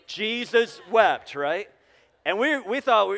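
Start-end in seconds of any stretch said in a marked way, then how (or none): 0.1-1.3 slow, loud and deliberate; leading a recitation. Real, not acted. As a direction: lead the room in saying it together, slowly. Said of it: "Say it with me".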